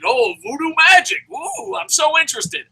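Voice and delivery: high, mocking fake interest; sarcastic. Bored viewer mocking the promo, sarcastic high voice. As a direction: sneer at the voodoo act in a high voice. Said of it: "You're like".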